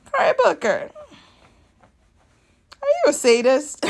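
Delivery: high, loud joking accusation breaking into laughter; mock accusation cut by laughter; laughing accusation. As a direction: accuse him half in jest, laughing.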